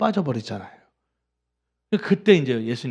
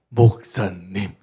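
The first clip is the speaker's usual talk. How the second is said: slow, drawn-out calls of 목사님, the second louder; mock cheering call; 6 semitones lower, 6 dB louder, much slower than usual. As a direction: cheer him on from the boat. Congregation cheering the pastor.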